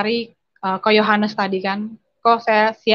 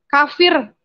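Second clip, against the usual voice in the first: a loud, higher retold yell of one word; father yelling; 5 semitones higher, 4 dB louder than usual. Father yelling at his Christian daughter, loud retold yell. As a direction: hurl the insult at your child. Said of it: "Bapak saya teriak".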